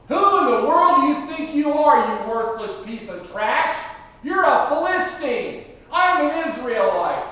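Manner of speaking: loud, indignant challenge to a giant; defiant shout. Acted. Boy David yelling up at the giant, furious. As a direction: bellow it up at him with contempt.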